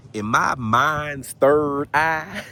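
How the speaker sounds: hamming up a spiritual seer; mock spiritual. Vlogger playing a mystic to his viewers, slow and mock-solemn. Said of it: "that sounded so real and spiritual".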